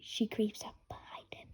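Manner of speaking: whispered narration; whispering as she creeps up. A narrator's reading. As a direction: breathe it out unheard. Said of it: "Very quietly".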